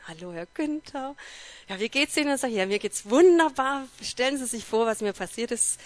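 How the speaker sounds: high, loud, bursting with happy news; beaming with joy. Retold or imitated. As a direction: gush it out like you can't wait to tell. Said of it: "Und ich freudestrahlend".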